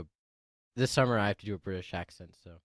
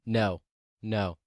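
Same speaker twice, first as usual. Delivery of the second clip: mom refusing; 3 semitones lower, much slower than usual. Retold or imitated. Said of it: "then she's like".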